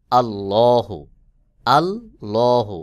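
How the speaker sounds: আল্লাহু with a full, heavy ল, the second slowly chanted; heavy lam. Shown as a demonstration. Teacher shows students the heavy ল in আল্লাহু, chanted slowly. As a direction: draw out আল্লাহু with a thick ল, recitation style. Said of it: "লামকে মোটা করে উচ্চারণ করতে হবে".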